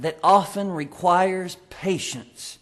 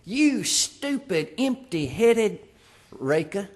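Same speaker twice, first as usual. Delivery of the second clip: mock insult; slower than usual. Acting out an insult to someone.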